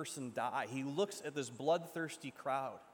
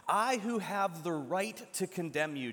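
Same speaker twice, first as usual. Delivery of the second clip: proclaiming; 2 semitones higher, 5 dB louder than usual. Acted. Jesus declares his right, preached.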